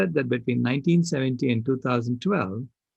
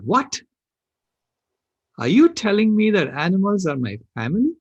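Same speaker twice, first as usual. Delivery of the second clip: put-on startled child; 7 semitones higher, 5 dB louder than usual. Child retold, startled question.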